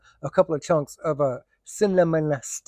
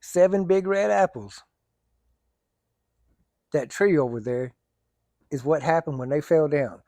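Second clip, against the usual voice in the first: put-on Cajun accent. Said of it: "heard a real Cajun talk".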